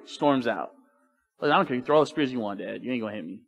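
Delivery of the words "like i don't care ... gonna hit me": unafraid Jonathan. Retold or imitated. Unafraid son brushes off his spear-throwing dad, nonchalant. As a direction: shrug off the threat, voice easing down.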